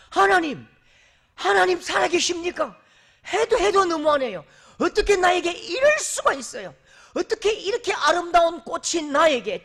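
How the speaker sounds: high, loud petulant complaining rose; whining complaint. Acted. The rose complaining to God about its thorns, high and loud. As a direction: whine and protest up to heaven. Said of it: "그 불평을 합니다".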